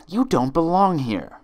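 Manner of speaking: high loud final verdict; high furious friend; loud accusing friend. Acted. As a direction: slam it down on her. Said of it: "Each friend repeated one of her twin's lines".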